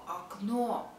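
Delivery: окно ending in a clear "NO"; stressed final o. Shown as a demonstration. Teacher repeating the example, окно with stressed last o. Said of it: "we pronounce it o".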